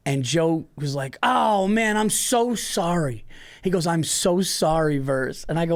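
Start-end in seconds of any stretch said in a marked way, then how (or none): 1.2-3.2 retold, slow apology, higher start; slow, earnest apology; apologetic. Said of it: "You apologized about that". 3.9-5.4 slow, earnest apology; apologetic. Retold or imitated. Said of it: "You apologized about that".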